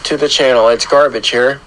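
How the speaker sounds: hoarse from a sore throat; rough, scratchy sore-throat voice; grating voice. Real, not acted. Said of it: "apologize for my terrible voice".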